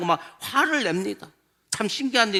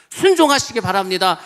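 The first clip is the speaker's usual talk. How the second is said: building exhortation; 5 dB louder than usual. Real, not acted.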